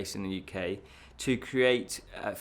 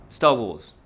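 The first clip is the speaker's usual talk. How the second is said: emphatic repeat; 10 dB louder than usual. Shown as a demonstration. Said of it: "I say Star Wars wrongly".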